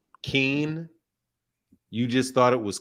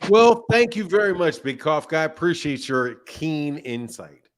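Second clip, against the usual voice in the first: sarcastic-sounding thanks. Real, not acted. Host thanking a caller for keen insight, sarcastic-sounding. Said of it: "I don't like that sarcasm".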